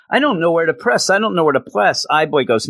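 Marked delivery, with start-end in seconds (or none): 0.1-1.1 flustered character voice. Acted. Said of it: "panicked character voice". 1.1-2.1 flustered character voice. Acted. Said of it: "panicked character voice".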